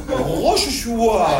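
Rochechouart said with tightly puckered lips; cul-de-poule lips. Shown as a demonstration. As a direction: exaggerate the Parisian pout on Rochechouart. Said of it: "Le même que je me suis mis".

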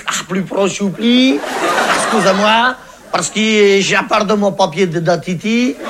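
put-on hesitant, halting foreign accent with nervous "ah"s; timid foreign man. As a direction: play a shy, nervous stranger asking the way. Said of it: "il me dit". (étranger timide, hésitant)

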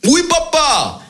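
put-on high eager child's voice; high son's reply. Son answering his father in a high eager voice. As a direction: chirp it up like a young boy.

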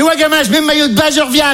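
high-pitched mum calling to her son; chirpy high maternal impersonation; mother's voice. Acted. Acting out his mother in the story.

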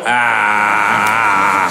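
put-on low, slow dopey child voice; mock a dim kid asking for chocolate; simple kid voice. Imitating a kid licking walls.

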